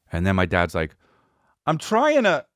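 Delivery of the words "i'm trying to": high, strained dad voice; dad impression. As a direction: blurt it out like a flustered dad.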